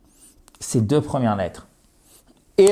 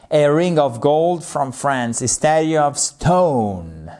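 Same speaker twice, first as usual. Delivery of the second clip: slow, careful "A ring of gold from France"; slow model reading; slower than usual. Shown as a demonstration. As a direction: read each word slowly for the class. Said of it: "model sentences said slowly".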